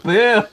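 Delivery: drawn-out mock boo; imitated crowd boo. Podcaster imitates the wrestling crowd's reaction, mock booing. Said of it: "you heard the crowd".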